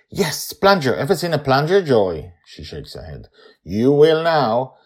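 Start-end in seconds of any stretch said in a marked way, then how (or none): 0.1-2.3 put-on child voice. Charlie asking Joy. 3.6-4.7 put-on child voice. Charlie teasing Joy.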